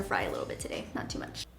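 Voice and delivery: fast hushed whisper. Acted. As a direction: whisper it quickly. Whispered cold open teaser.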